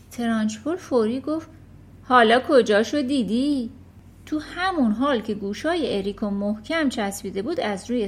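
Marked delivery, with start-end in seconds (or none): 2.0-3.7 gloating threat. Acted. Trunchbull mocks the boy.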